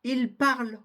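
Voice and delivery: parle ending on the L, no N T; silent plural ending. Shown as a demonstration. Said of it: "vous ne prononcez pas le N T".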